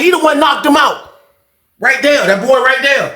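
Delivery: high-pitched imitation of the booth lady; retold accusing witness.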